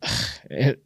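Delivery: imitated sigh of annoyance; exasperated sigh. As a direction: let out a daughter's fed-up sigh. Imitating daughter's wordless reply.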